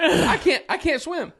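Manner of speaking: high-pitched comic panic; freaking out. Retold or imitated. Non-swimmer on a stalled boat in rising waves, high-pitched panic. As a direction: plead it high, half laughing at yourself. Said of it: "I am freaking out".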